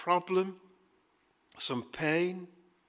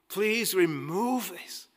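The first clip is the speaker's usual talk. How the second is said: pleading prayer; 4 semitones higher, slower than usual. Retold or imitated. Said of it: "long, extended times of crying out to God".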